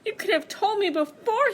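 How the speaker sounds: high, mildly sulky bear; high, put-out bear. Acted. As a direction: Bear grumbling at the wind. Bear complaining to wind.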